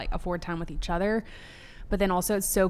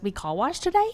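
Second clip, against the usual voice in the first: Maddox; 6 semitones higher than usual. Retold or imitated. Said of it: "Maddox wakes up and he goes".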